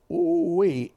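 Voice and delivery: high, loud whoop of awe; excited exclaim. Retold or imitated. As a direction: cry it out like you felt the hit. Recalling the crash impact.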